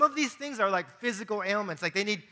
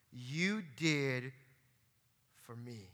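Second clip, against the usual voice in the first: hushed verse ending; 6 semitones lower, 6 dB quieter, slower than usual. Acted. Preacher delivers the verse's punchline.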